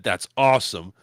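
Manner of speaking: low, understated sarcasm; dry read of insincere praise; lightly sarcastic, pitched low. Retold or imitated. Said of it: "sarcastically said".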